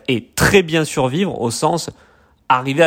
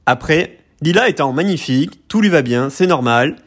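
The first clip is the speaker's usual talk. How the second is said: stiff, even robotic delivery. Shown as a demonstration. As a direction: say it like a companion robot. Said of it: "j'ai pas fait avec la bonne voix".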